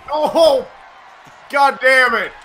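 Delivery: angry yell. Real, not acted. Gamer yelling at a bad moment.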